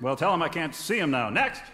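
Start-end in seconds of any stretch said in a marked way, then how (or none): 1.3-1.6 calling out. Acted. Doctor calling next patient.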